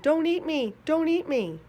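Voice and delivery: high, loud mock scream of terror. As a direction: cry out as if a snake is about to eat you. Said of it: "I screamed".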